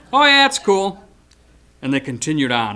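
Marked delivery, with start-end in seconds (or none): 0.1-1.0 casual roommate. Retold or imitated. Fencer answers casually from roof.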